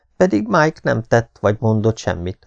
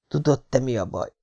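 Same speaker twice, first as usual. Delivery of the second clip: whispered; 3 semitones higher, 7 dB quieter than usual. A narrator's reading.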